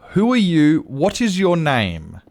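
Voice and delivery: retold exasperation, pressing for a name; exasperated questioning. Retelling exasperated exchange with customer.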